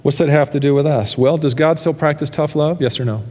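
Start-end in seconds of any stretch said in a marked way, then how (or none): 0.0-1.2 a hint of a skeptical listener. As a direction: toss out a doubter's so what. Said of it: "You say".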